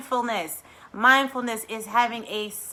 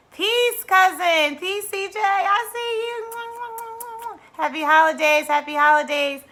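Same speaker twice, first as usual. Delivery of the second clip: high, louder greeting to friends; excited shout-out; 12 semitones higher, 5 dB louder than usual. Real, not acted. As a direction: call out happily to them. Greeting live chat viewers.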